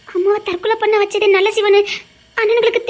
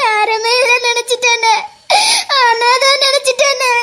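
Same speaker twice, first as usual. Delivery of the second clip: keen like a mourner; wailing lament. Acted. Sister wailing she felt orphaned. (ஒப்பாரி போல அழுகை)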